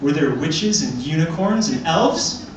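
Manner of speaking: put-on cooing, indulgent talk to a child; patronising adult. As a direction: speak down sweetly to a kid.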